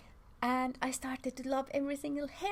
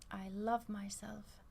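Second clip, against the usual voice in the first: slow affirmation; slower than usual. Shown as a demonstration. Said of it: "you repeat these words now".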